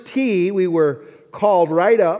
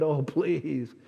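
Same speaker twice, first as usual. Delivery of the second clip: slow, higher, begging; pleading prayer; 3 semitones higher, slower than usual. Retold or imitated. Boy pleading over his drive, slow and higher. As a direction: beg the ball not to slice. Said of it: "and I said".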